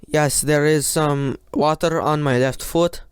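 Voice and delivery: a light mock Finnish accent, barely shifted from the speaker's own voice; half-hearted Kimi Räikkönen impression with a Finnish accent. Kimi reporting water on his foot over team radio, in a mild mock Finnish accent. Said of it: "I don't know what accent was that".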